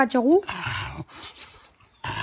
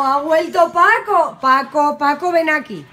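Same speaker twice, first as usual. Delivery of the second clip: excited calling; 4 semitones higher, 4 dB louder, slower than usual. Real, not acted. Calling returning dog.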